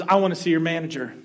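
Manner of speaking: loud, fast demand for the manager; demanding customer. Retold or imitated. Angry diner demanding the manager, loud and fast. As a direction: bark for the manager. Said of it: "So the man goes".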